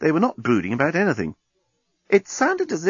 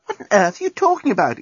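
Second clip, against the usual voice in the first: exclaiming; 9 semitones higher than usual. Acted. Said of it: "exclaimed Nettie".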